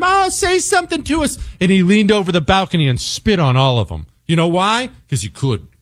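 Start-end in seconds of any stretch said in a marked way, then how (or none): 0.0-1.4 squeaky high mock-fangirl plea; imitating fans. Host mimics a singer's fans begging from below, high squeal. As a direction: call up to the balcony like adoring fans. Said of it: "all his fans were underneath him".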